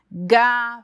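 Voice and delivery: "gafanhoto" broken into ga-fa-nho-to with long gaps; syllable by syllable. Shown as a demonstration. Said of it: "silabando ela, por exemplo".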